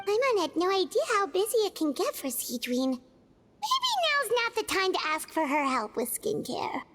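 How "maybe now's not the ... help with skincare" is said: whispered aside. Acted. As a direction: whisper so the busy nurse won't hear. Aside not to be overheard.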